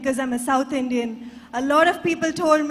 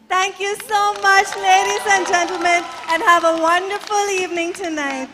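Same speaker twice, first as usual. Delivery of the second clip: higher and louder proud sign-off; grand flourish; 4 semitones higher, 3 dB louder than usual. Real, not acted. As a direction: finish big, like a pageant closing. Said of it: "ended with a flourish".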